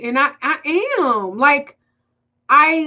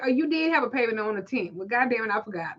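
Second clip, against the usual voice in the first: imitating the excuse, getting quieter; mock forgetful client; 5 dB quieter, faster than usual. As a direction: play the sheepish client trailing off. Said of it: "I be like".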